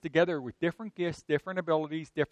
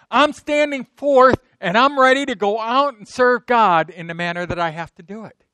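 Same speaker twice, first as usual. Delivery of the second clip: loud, raised preaching declaration; holy boldness; 6 semitones higher, 7 dB louder than usual. Acted. Believer standing forth to serve God, bold declaration. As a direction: proclaim it with force, stretching the opening. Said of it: "That's a holy boldness".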